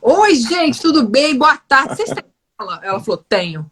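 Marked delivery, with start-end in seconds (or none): 0.0-2.8 higher, bright, sweet greeting; playing the all-smiles customer; extra friendly greeting. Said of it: "eu chego toda simpática". 3.3-3.7 flat, lower, dismissive one-word answer; imitating a cold shop clerk; mock curt reply. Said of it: "Putz, tá mal".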